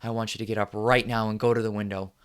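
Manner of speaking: loud furious command building to a yell; angry rallying shout. Acted. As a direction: whip the audience into rage.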